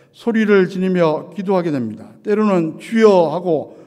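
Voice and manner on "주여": short, louder prayer cry; demonstrated one-word outcry. Shown as a demonstration. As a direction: call out to the Lord in one burst. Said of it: "외마디로 부르짖으며".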